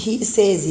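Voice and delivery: SAYS as "saze", long vowel; wrong says. Shown as a demonstration. Teacher shows the mistake in he says, long-vowel "saze". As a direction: say "says" like "say" plus z. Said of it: "you don't say".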